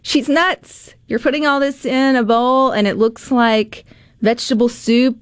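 high incredulous mock-doubter voice; scoffing, high and disbelieving; skeptical viewer. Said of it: "you would think".

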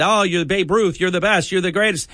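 butter him up, hammed-up; mock gushing praise. Host mocks fawning callers with gushing praise. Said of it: "just smooching and".

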